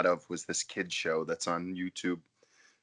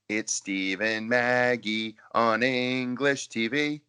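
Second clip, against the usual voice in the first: intro announcer; 3 semitones higher, slower than usual. Retold or imitated. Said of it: "the beginning of his videos is".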